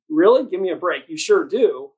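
mocking give-me-a-break; sarcastic disbelief. Real, not acted. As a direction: scoff at a lame excuse. Scoffing at Germany's excuse.

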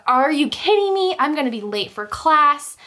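mock outrage at the other driver; exasperated. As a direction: protest the crash in disbelief. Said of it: "I was like".

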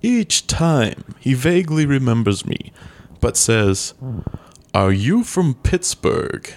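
slow, mock-spooky storyteller voice; lightly spooky, drawn out slowly. Asked for a spooky voice, tells it slowly, mock-spooky. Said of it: "Say it with a spooky voice".

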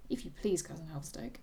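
reading a novel aloud with light character voices; lively book reading with hinted voices; story reading. A narrator's reading. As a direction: read the final chapter to a friend. Reads the novel's ending aloud.

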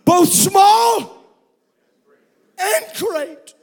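slow, stretched proclamation; slow solemn proclamation; voice from the throne. Acted. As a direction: announce it like a voice from the throne. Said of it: "a voice came out of that throne".

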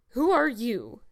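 put-on loud, imperious old lady; brusque demand. A narrator's reading. Miss Barry demands who has walked in, brusque. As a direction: challenge the intruder loudly. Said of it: "demanded Miss Josephine Barry without ceremony".

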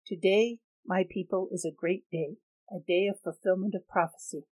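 ringing public address; proclamation. Acted. Leader addressing the arena crowd over loudspeakers, proclaiming. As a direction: announce it to the crowd. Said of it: "voice rang out over the loudspeakers".

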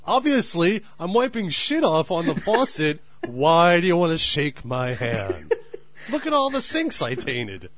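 loud, high, outraged yelling; exasperated yelling. Pretend. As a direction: yell it at an intruding friend. Answering Jim's handshake in the bathroom.

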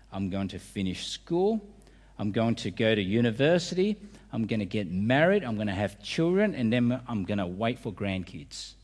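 subtle, understated version. Shown as a demonstration. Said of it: "We say it more subtly".

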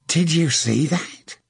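indignant amazement. A narrator's reading. Archer to his comrade after a gunstone kills a man, indignantly amazed. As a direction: ask it slowly, indignant and astonished. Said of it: "Scarlett asked in indignant amazement".

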